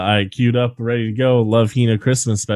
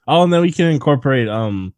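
excited planning; 2 semitones higher, faster than usual. Real, not acted. Adding wild ideas to pitch.

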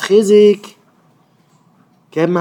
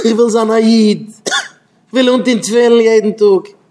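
high, loud impassioned plea; acted fervent declaration; 5 semitones higher, 5 dB louder, slower than usual. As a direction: cry it out slowly and forcefully. Acted cry to the Creator. (הויכער, פארצויגענער אויסגעשריי)

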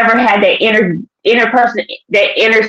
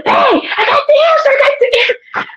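very high, squealed excitement; excited announcement. Retold or imitated. Waking her husband with the answer, thrilled. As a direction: burst out with the big news, voice soaring.

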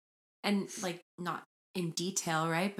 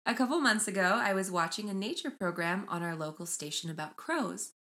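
measured storytelling read; reading aloud. Acted. Host reading crow story to co-host, measured read-aloud. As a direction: read the post out evenly, phrase by phrase. Reads Reddit post aloud.

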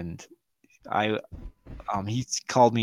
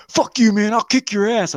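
high, louder imitation of a threat; high-pitched retold bluster; mock angry threat; 10 semitones higher, 3 dB louder than usual. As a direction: imitate a riled-up man picking a fight. Friend threatening a fight, retold.

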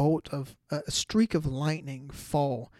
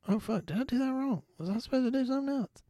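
higher, fast worried rush; flustered panic; 9 semitones higher, faster than usual. Retold or imitated. New fiancé panicking he proposed wrong, fast and high. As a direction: rush it out in sudden doubt.

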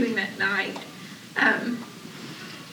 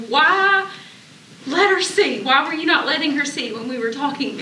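demanding answers of God, then easing off; frustrated complaint to God. Retold or imitated. Arguing with God on the drive home, a frustrated raised plea.

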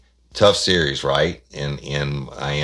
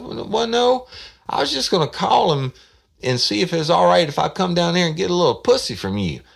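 a raised, louder voice for the man calling; brash caller; 6 dB louder than usual. Retold or imitated. Prank caller demanding to know where Johnson is, loud. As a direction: push it out like a pushy caller.

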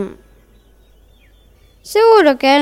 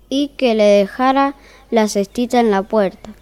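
calm, even fairy-tale reading voice; story narration; 2 semitones lower than usual. A narrator's reading. Narrator opening the tale for listeners, in storytelling voice. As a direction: read it like a bedtime story.

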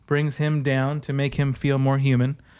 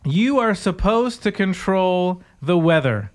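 higher, earnest mock sermon voice; hammed-up pious woman, higher; mock preacher woman; 5 semitones higher, 3 dB louder than usual. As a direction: imitate the lady preacher, pitched up. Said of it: "is what she says".

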